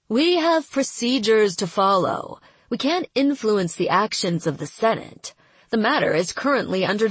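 detached bureaucratic monotone; flat, uncaring official; cold indifference. Acted. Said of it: "Her cold indifference".

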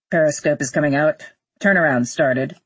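low, businesslike pilot report; astronaut on radio. Acted. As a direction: report each step to control.

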